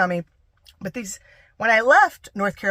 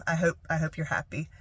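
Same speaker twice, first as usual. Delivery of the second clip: soft, kindly meant; sincere well-wishing; 2 semitones lower, 6 dB quieter than usual. Retold or imitated. Wishing dad well despite the hurt, soft and sincere. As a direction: wish them well, quietly and sincerely. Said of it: "Or not like".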